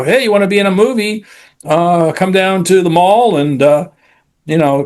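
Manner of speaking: fast, pushy sales pitch voice; a hint of a TV ad hawker; car salesman. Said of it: "God, I sound like a, a car salesman".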